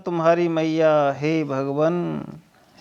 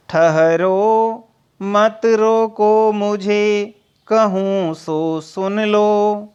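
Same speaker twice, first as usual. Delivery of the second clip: slow, drawn-out verse recital; poem recitation; much slower than usual. Acted. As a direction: recite the verse slowly, weighing each word. Recites next verse lines. (धीमा, खिंचा हुआ काव्य पाठ)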